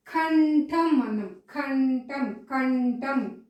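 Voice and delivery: కంఠం in two long beats, kan-tham; careful, drawn out. Shown as a demonstration. Teacher dictating to pupils, slow, careful కంఠం. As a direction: hum the nasal in కంఠం. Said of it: "ఇది కాదు నేను పలుకుతుంది".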